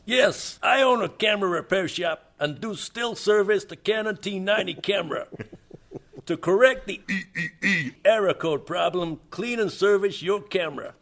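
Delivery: put-on New York accent. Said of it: "You sound like a Russian by way of New York".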